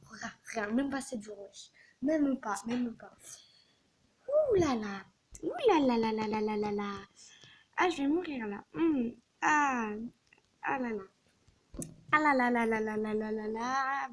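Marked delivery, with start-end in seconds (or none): 4.3-14.1 loud mock lament; despairing wail. Real, not acted. Exaggerated despair.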